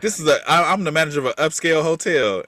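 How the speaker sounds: a hint of put-on proper speech; white voice. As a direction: lightly imitate a hotel manager's white voice. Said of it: "they exaggerated the white voice".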